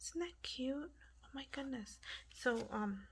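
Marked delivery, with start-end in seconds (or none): 0.0-2.0 soft, partly whispered marvelling; hushed whispering. Real, not acted. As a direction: keep it hushed for the sleeping house. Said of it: "apologize if I'm whispering".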